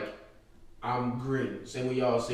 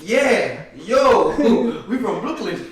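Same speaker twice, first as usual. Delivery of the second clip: higher, louder mock Brooklyn voice breaking into laughs; fake New York accent, laughing; 9 semitones higher, 11 dB louder, slower than usual. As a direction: practice the accent in the mirror, cracking up. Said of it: "an accent like this".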